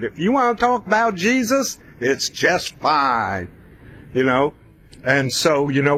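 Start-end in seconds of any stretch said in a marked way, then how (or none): 0.0-3.5 a much higher, put-on voice for the band, slowing on the last words; quoting the band. Band telling him he can talk about Jesus, in a high mock voice. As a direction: mimic the producers breezily giving permission. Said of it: "that's the way they put it".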